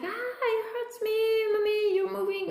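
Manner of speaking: hint of a hurting boy crying out; mild imitated whimper; mock pained cry. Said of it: "he's screaming. He's like".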